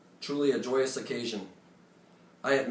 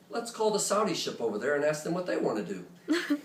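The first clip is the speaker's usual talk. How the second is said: casual but direct; 4 semitones higher than usual. Retold or imitated. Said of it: "he casually but directly says".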